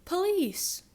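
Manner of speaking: high, loud police holler. Acted. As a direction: yell like a sheriff in pursuit. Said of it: "sheriff hollered out".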